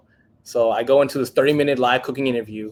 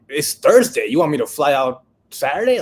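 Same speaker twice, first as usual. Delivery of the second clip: incredulous; 3 semitones higher, 7 dB louder than usual. Retold or imitated. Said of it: "I'm like".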